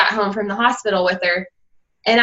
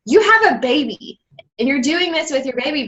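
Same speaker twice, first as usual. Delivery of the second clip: higher-pitched retold amazement; amazed disbelief; 4 semitones higher than usual. Friend marvels at new mom working out, amazed. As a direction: imitate an astonished friend, voice lifted.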